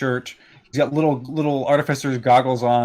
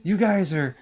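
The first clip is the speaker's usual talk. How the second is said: put-on higher, drawn-out childlike wonder; awestruck kid; 6 semitones higher, much slower than usual. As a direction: speak slowly, as if meeting your heroes. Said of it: "these two kids look up at you".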